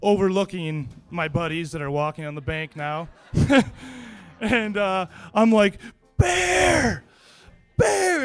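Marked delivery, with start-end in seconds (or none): 6.2-8.2 high, loud yell of alarm; shouted warning. Retold or imitated. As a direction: shout the warning across the river. Warning buddies about a grizzly.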